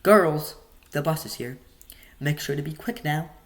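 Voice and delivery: bright call up the stairs, then easing; mild call out to the kids. A narrator's reading. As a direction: call the girls to the bus. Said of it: "smiled and called out to us".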